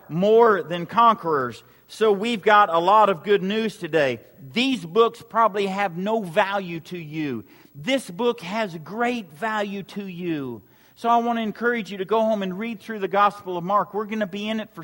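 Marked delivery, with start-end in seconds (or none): 4.5-10.6 sincere. Real, not acted. Contrasting books with the Bible.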